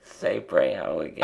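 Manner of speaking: trying not to laugh. Real, not acted. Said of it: "I can hear you trying not to laugh".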